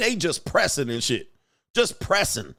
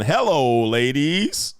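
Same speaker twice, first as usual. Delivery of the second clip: mock pickup line in background; 3 dB louder, much slower than usual.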